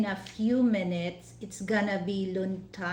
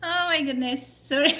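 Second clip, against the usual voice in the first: surprised laugh; 6 semitones higher, 6 dB louder than usual. Real, not acted. Camera trouble, laughing surprise.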